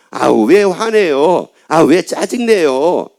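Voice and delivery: mildly annoyed, drawn-out protest; acted irritation. Love-starved person answering someone who says be patient, mildly irritated. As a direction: stretch out each complaint slowly, a touch irritated. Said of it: "막 짜증을 냅니다".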